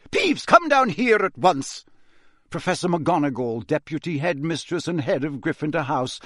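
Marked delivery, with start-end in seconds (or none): 0.1-1.9 high, loud, slow command; stern shouted order, each word drawn out; angry yell. A narrator's reading. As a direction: yell it as a furious teacher. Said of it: "yelled an angry voice".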